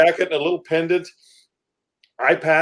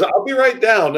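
mock Strangelove accent; 6 semitones higher, slower than usual. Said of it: "He goes".

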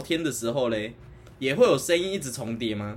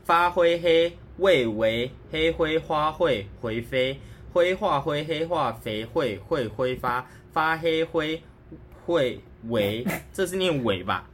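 reading aloud haltingly; slower than usual. Shown as a demonstration. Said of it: "你给我看文字".

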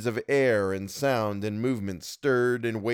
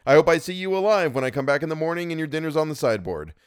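mimicking Mrs Dudley; 6 semitones higher, 3 dB louder, faster than usual. A narrator's reading. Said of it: "she told me".

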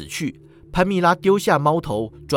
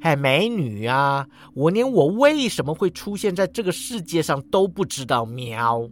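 无辜的语气; innocent. Acted. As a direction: play innocent to the angry woman. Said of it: "橘猫无辜道".

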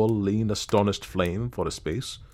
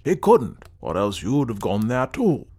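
emphatic contradiction; 4 dB louder than usual. Acted. Wish disputing the ghost tale, emphatically objecting. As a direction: argue back forcefully.

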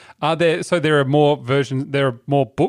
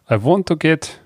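put-on "I want to get" in a light Russian accent; "I want to get" with Russian-style vowels; 2 semitones higher, slower than usual. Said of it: "I gotta get my Russian accent right".

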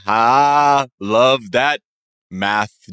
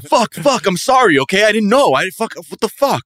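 high, flustered stammering sorry; mock panicked apology; 8 semitones higher than usual. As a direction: scramble to apologize, half-laughing. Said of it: "And he's like".

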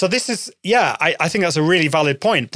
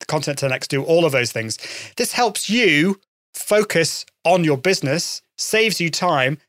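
upbeat sponsor read. Acted. Host reads a sponsor message to podcast listeners, upbeat ad read.

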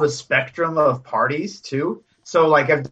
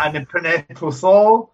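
put-on lisping Spanish accent; mock Spanish lisp on "Puso"; 3 dB louder than usual. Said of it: "a Spanish accent".

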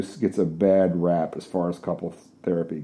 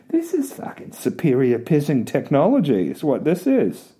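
put-on amazed girlfriend; 3 semitones higher than usual. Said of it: "She's like".

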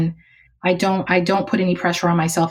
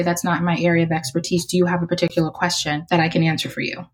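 calm and polite, a firm no; calm brush-off. Retold or imitated. Declining a mentoring request calmly and politely. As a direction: let them down gently and evenly. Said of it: "just very calmly say".

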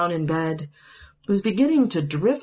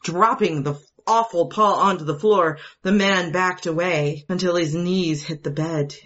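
ordinary delivery

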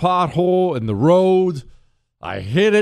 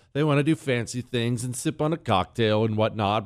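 ordinary talk

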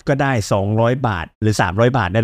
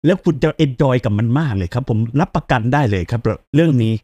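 ordinary delivery

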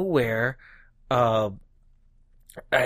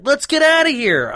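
higher, louder hammed-up hero line; mock movie hero; 10 semitones higher, 4 dB louder than usual. Mocking horror-movie survivors with a high hammed-up line. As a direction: parody a relieved horror survivor. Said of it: "and then be like".

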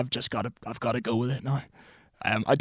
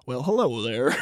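a hint of his sensual greeting; lightly imitating the clip; mock McConaughey; 3 semitones lower, slower than usual. Retelling the app, she mimics the actor's greeting lightly. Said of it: "eyes widen".

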